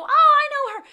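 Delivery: very high, loud, lilting recognition; Lisa Kudrow impression. Celebrity spotting her at an event, squealing recognition. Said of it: "and she'd go".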